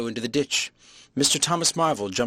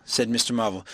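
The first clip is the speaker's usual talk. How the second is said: ordinary delivery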